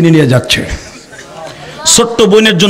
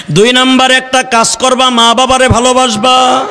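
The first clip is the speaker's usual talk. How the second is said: waz preaching. Real, not acted. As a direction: exhort the crowd, stretching the line endings. Preaches to a crowd. (টেনে টেনে সুর করে ওয়াজ)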